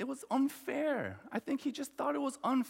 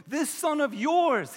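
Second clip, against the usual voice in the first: higher, drawn-out distancing of the brother; disowning disdain; 4 semitones higher, 4 dB louder than usual. Retold or imitated. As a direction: act out a son pushing his brother away. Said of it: "as if he has nothing to do with him".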